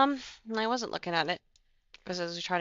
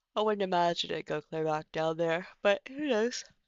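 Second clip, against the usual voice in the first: talking through a yawn that breaks the words. Watching auction bids come in, the speaker talks while yawning. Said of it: "sorry, I keep yawning".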